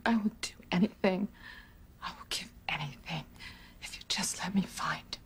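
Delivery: soft, breathy whispered plea; hushed whisper. Acted. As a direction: whisper the prayer, near tears. Tearful confession to lost son.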